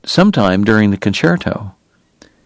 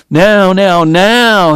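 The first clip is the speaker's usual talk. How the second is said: pianist urgently praying as he plays, raised pitch; 7 semitones higher, 4 dB louder, much slower than usual. A narrator's reading. Pianist willing himself through the music, urgent prayer. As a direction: pray it out, pitched high and insistent. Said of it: "he prayed".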